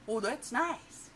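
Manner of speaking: loud, high, drawn-out frog voice; brash, swooping cartoon reply; obnoxious frog. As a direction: gush it slowly with a big wide mouth. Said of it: "and he's obnoxious".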